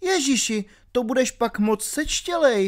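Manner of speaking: alarmed, horrified exclamation. Reading a novel aloud, a woman answers the narrator, frightened. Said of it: "řekla vyděšeně".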